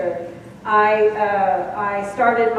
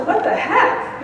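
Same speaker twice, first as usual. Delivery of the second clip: high, laughing what-the-heck; amused exasperation at yourself; laughing self-scold; 9 semitones higher, slower than usual. Retold or imitated. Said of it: "it sounds more like that".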